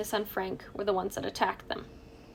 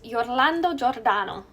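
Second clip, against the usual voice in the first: Italian accent. Shown as a demonstration. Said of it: "I have to say this with an Italian accent".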